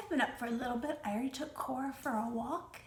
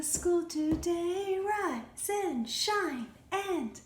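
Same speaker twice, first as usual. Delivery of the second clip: sung louder, with energy; slower than usual. Shown as a demonstration. Teacher sings louder when she calls for louder. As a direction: belt the song out more.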